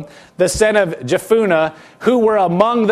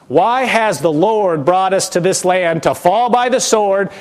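whining. Retold or imitated. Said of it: "Can you hear the whine in their voice".

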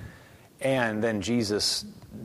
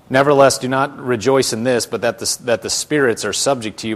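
loud, continuous reading of the verse; scripture reading; 3 semitones higher, 8 dB louder than usual. Acted. Preacher reading verse twenty to his class, scripture reading. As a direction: read it straight through with firm emphasis.

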